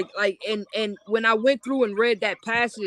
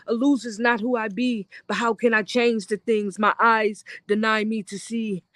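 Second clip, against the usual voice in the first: rhythmic poetry delivery; spoken word flow; spoken word verse. Acted. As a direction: perform it like slam poetry.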